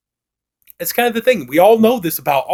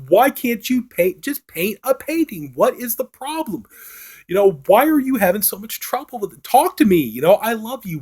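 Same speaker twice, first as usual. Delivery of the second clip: exasperated plea; 6 semitones higher than usual. Retold or imitated. Wife fed up with Cole.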